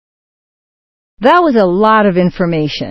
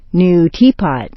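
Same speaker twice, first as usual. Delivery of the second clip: "tea" peaks, "pot" drops; compound intonation. Shown as a demonstration. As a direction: stress "tea" in "New teapot". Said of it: "The main intonation patterns".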